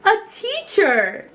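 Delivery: loud, high, slow chorus; class shout. A narrator's reading. The whole class answering Mister Slinger, loud chorus. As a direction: shout it out together.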